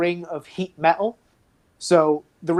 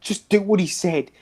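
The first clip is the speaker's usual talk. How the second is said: lightly voiced cultist, rattled and apologetic; a hint of a desperate captive; shaken prisoner. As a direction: play a haunted captive owning up. Prisoner NPC confession.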